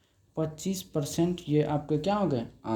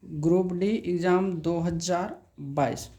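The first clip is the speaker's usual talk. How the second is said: whisper. Real, not acted. Teacher writing on the board, whispered.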